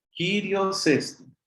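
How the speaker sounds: slow "Kyrios Estin", stress on "Kyrios"; reading model. Shown as a demonstration. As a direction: say "Kyrios Estin" slowly, weight on "Kyrios". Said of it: "Kyrios Estin sería la lectura". ("Kyrios Estin" lento, acento en "Kyrios")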